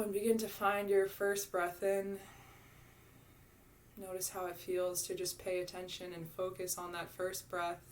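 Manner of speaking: softened voice with long, unhurried pauses; guided meditation. Real, not acted. Yoga teacher guiding students into their first breaths, guided meditation. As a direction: gently guide them inward, leaving room to breathe.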